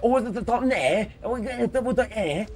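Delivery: high, loud mock Manchester accent; squeaky mock Manchester. Gamer mocking a Manchester accent, high and loud. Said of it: "do a Manchester accent".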